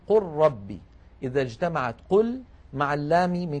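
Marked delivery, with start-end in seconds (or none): 0.1-0.8 قل ربي recited with the lam merged into the ra; reciting the example. Shown as a demonstration. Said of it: "كقوله تعالى مثلا".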